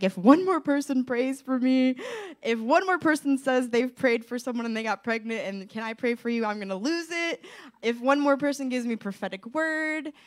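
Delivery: fed up. Retold or imitated. Woman recalling her despair at well-meant prayers, exasperated. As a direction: at the end of your rope, retelling it.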